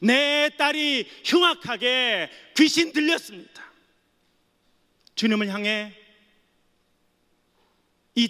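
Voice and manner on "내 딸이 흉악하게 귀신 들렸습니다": pleading cry. Acted. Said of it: "이렇게 소리칩니다".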